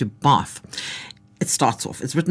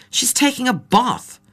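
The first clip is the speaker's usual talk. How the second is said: put-on higher, slow mild German accent; a hint of German tourist, calmly matter-of-fact; 10 semitones higher, slower than usual. A narrator's reading. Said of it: "In a strong German accent".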